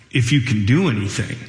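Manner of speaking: Jesus quizzically repeating the father's words; incredulous question. Retold or imitated. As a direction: throw the plea back, doubting the "if". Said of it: "like a question".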